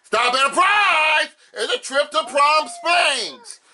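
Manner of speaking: high, slow game show shout; booming prize announcer. Acted. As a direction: sell the big prize. Host hits a prize spin.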